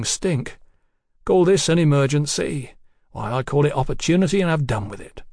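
lightly voiced chatty tradesman king; a hint of a garrulous bill-sticker, unruffled; bill-posting king.

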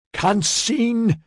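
bellowing. A narrator's reading. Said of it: "Maxen bellowed".

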